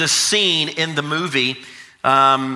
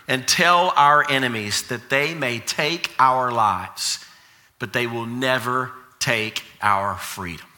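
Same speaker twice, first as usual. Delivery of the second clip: solemn heroic address, sinking lower toward the close; William Wallace; 5 semitones lower than usual. Acted. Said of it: "Wallace responds by saying this".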